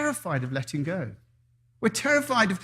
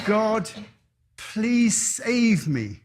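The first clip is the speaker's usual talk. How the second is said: desperate prayer; 2 semitones higher than usual. Acted. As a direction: beg God to rescue you. Man on roof praying to God.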